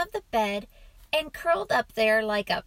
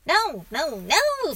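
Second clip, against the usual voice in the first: put-on higher, louder boyish protest; quick refusal; 6 semitones higher, 5 dB louder, slower than usual. A narrator's reading. Boy turning down dad's help with washing, quick protest. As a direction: refuse in a raised, insistent voice. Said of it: "said the boy quickly".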